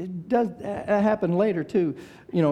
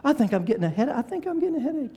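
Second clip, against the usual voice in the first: fake sick whine; 8 semitones higher, faster than usual. Faking illness to skip church.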